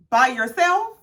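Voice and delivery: insistent rising question; pointed questioning. Retold or imitated. Friend asking again about the house offer, skeptical. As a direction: imitate a doubting friend pressing for the answer. Acted Karen repeats her question.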